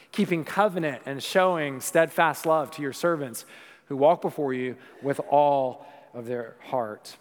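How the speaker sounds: put-on slow, formal reading of an old prayer; measured reverent recital; solemn scripture reading. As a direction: read it like a prayer in church. Reads scripture prayer aloud.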